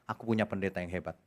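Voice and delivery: hushed, self-satisfied imitation; mock naive churchgoer.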